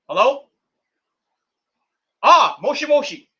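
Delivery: mock phone pickup voice; answering a pretend call. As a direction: pick up the fake call all eager.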